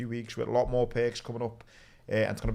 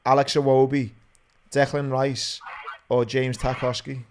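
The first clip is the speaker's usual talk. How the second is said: raised voice to carry down a phone line; loud phone call; 6 dB louder than usual. Real, not acted. Host on the phone to a quiz caller, talking loudly.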